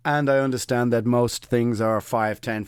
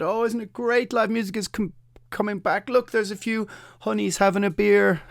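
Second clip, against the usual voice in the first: mock cheerful media; 8 semitones higher than usual. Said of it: "painted it with a sunny side up brush and said".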